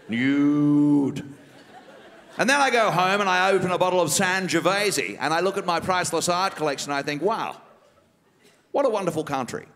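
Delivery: a lightly voiced smug, refined politician; Malcolm Turnbull impression. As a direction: savour every word like a self-satisfied rich man. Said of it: "Malcolm Turnbull impersonation".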